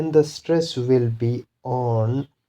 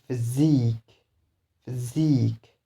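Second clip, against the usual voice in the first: physique with SIQUE stressed; stress on suffix. Shown as a demonstration. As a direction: push the last syllable of physique. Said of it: "the stress will be on these suffixes".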